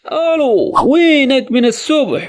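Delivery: anxious, calling into the phone; worried friend who vanished since morning. Shown as a demonstration. Caller on the phone to a missing friend, worried. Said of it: "تھوڑا پریشان ہو کر بولیں گے".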